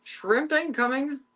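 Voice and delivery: high, slow sing-song call; playful announcement. Real, not acted. Calling the cats that shrimp is coming, high and playful. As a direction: announce the shrimp like a treat arriving.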